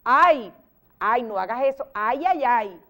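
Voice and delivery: loud "ay", then dropping; acted example of an interjection; demonstrated exclamation. Shown as a demonstration. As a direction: exclaim it as a sample. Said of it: "que exclama dolor, sorpresa, miedo".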